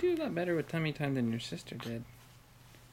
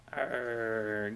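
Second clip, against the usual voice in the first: low, drawn-out "arr"; mock growl, pitched down; playful growl; 6 semitones lower than usual. Parent playing squeeze with baby, playful growl.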